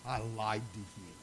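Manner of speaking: a touch of tears in a quiet apology; mild imitation of a weeping woman apologizing to the pastor; retold weeping. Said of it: "she's weeping".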